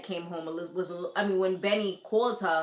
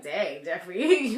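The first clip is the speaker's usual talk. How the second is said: slow impressed; 2 semitones lower, 3 dB louder, slower than usual. Retold or imitated. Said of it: "I was just like".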